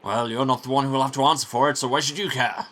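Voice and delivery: fast, sneering retort; snide monk. Acted. Monk sneering back at the prior, snide and fast. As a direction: brush him off with contempt.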